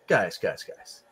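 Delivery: soft, dropping away to almost nothing; hushed calm. Retold or imitated. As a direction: settle them down gently. Regis voiced calmly, hushed.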